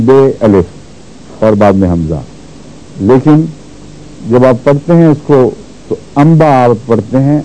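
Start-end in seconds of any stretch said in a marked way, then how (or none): 6.2-6.5 "انبا" with a hummed sound between n and m; in-between nasal. Shown as a demonstration. Teacher showing tajweed, "انبا" with a nasal blend. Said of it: "دونوں کے بیچ بیچ میں ایک لفظ ہے".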